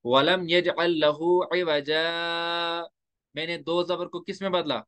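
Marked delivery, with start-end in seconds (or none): 0.0-2.9 slow melodic tajweed recitation; Quran recitation. Shown as a demonstration. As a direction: recite it slowly like tilawat. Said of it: "देखो मैंने क्या पढ़ा". (धीमी तिलावत)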